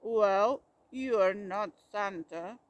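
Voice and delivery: loud, indignant shout. A narrator's reading. Bear unmasking the fake Santa, loud shout. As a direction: shout him down. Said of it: "he shouted".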